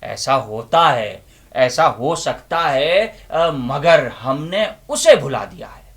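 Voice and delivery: loud, impassioned recitation with long pauses; dramatic declamation. Acted. Inner voice confronting the listeners with a loud, impassioned declamation. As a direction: preach it like a stage monologue.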